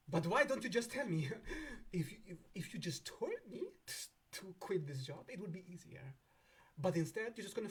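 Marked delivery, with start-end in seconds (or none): 0.1-6.1 high pleading whine; pleading client. Pretend. Client begging Saturn to just say it, pleading. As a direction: beg it, pitched up. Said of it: "So you're like".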